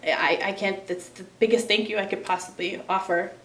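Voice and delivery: thanking donors while fighting tears; emotional thanks. Real, not acted. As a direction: hold it together while thanking. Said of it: "I'm getting a little emotional".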